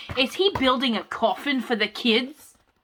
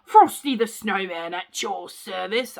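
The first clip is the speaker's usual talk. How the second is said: a hint of a grand snowman, a bit louder; lightly voiced Frosty; nice voice for Frosty; 3 semitones lower, 3 dB louder than usual. Shown as a demonstration. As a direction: announce yourself like a friendly magical snowman. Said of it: "let me get a nice voice for that".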